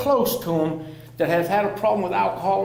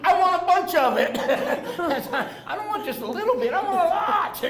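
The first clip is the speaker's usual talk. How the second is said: high, laughing greed; laughing joke; 10 semitones higher, 3 dB louder than usual. Retold or imitated. Joking to the group about wanting more methadone, laughing. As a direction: ham up the addict's craving.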